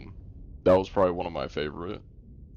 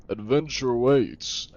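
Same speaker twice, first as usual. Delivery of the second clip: slow, higher mock heroic catchphrase; imitated game-character line; 4 semitones higher, slower than usual. Player mocking a line heard leaving the tavern, slow parody. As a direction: parody an over-repeated adventure line. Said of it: "Annoying ass lines that you just hear".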